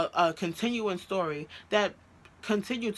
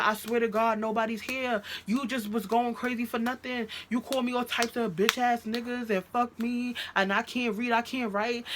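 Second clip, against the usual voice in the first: higher-pitched, protesting denial; imitated aggrieved boyfriend; 5 semitones higher than usual. Girlfriend mimicking boyfriend's denial on the phone, aggrieved. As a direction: plead innocence in a hurt, raised voice.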